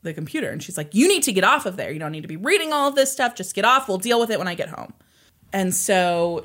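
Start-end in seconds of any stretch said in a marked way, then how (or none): 0.9-4.9 mildly furious retold scolding, higher; raised, hurried telling-off; furious mom. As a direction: scold quickly, imitating a fed-up mother. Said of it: "Tina is furious".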